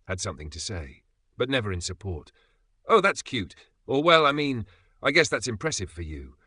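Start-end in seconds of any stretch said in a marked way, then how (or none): 2.9-3.5 high, louder mock-sweet dismissal; patronizing little jab, pitched up; sarcastic put-down. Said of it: "laced with sarcasm". 4.0-6.3 high, louder start, easing into condescension; backhanded compliment; sarcastic faint praise. Acted. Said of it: "laced with sarcasm".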